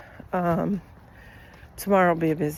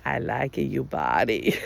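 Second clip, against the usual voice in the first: lightly voiced little boy, lower and slower; imitating the boy; 9 semitones lower, slower than usual. Toddler tells her he likes her body, mock child voice. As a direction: play the three-year-old deadpan. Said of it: "and he goes".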